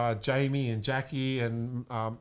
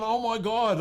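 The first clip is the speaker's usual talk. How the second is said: retold excited gasp; 7 semitones higher than usual. Retold shock at news.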